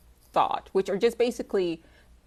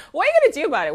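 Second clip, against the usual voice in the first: much higher, louder taunting challenge; teasing viewers who call her an alien; 12 semitones higher, 9 dB louder, much faster than usual. Retold or imitated. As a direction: throw the taunt out loud and high. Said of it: "my response was like".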